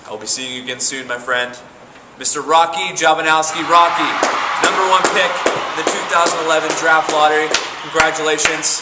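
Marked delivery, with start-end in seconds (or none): 2.2-8.8 loud announcer reveal. Acted. Number one pick reveal.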